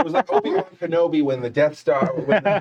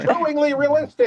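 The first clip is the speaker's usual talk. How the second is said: much higher, hammed-up trailer voice; trailer announcer; 12 semitones higher than usual. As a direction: sell it like a cheesy trailer. Voicing trailer tagline.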